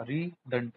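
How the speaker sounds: "री डंट" slowly, in two separate parts; split into syllables. Shown as a demonstration. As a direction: break "री डंट" after "री". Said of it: "री से मतलब दोबारा".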